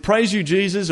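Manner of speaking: evangelical praise. Retold or imitated. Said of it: "Every sentence finished with".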